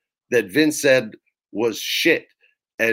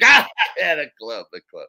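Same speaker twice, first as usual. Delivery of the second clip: Kevin Dunn; 3 semitones higher than usual. Retold or imitated. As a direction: imitate a boss's sidekick who laughs at everything. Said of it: "he laughs at everything".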